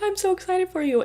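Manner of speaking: high, bubbly gush. Retold or imitated. Schoolmate passing by, high gushing excitement. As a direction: sell the excitement, sugary high.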